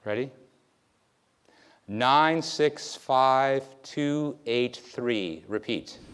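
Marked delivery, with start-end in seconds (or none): 1.9-5.4 each digit louder and spaced apart; a memory tester reading a digit string to a volunteer. Shown as a demonstration. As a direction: dictate the digits clearly, one at a time. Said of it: "I'm gonna read to you numbers".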